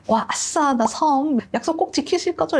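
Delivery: high, giddy squeal of joy; mock-excited servant. Sancho cheering over the promised island, high and giddy. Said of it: "너무 신나게".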